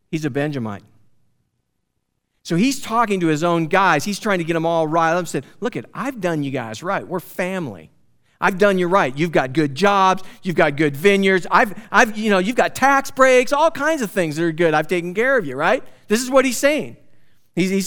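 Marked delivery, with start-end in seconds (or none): 5.6-15.6 louder, rising pitch, working up his men; acting out Saul rallying his men, climbing in pitch and volume; playing Saul stirring up his men, louder as he goes; Saul rallying his tribe. Preacher acts out Saul rallying Benjamites.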